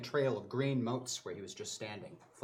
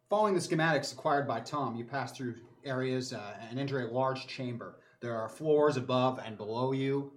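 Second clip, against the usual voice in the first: game master narration. A narrator's reading. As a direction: narrate it like a sci-fi action scene. GM scene narration.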